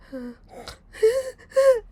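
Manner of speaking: high mock whimpering; terrified whimper. Scared girl trying to fall asleep, mock whimper. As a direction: act out high, frightened little gasps. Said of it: "trying to fall asleep, terrified".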